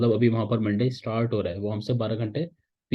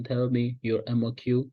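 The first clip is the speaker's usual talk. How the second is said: American accent; much slower than usual. Shown as a demonstration. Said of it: "इस तरीके से वो बोलते हैं".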